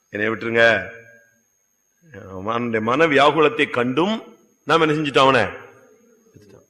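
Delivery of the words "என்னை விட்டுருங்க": pleading. Retold or imitated. Joseph begging his brothers, in a light pleading voice. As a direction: beg gently, in a changed voice. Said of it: "கெஞ்சுறான்".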